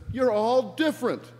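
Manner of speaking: high, loud shout; Brian yelling to mob. Acted. Brian insists to the mob following him, yelling. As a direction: shout it high to a whole crowd. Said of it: "he yells to them".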